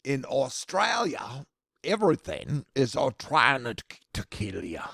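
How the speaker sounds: a badly faked Australian accent; slow, hammed-up Australian accent. Shown as a demonstration. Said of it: "That's the worst accent ever".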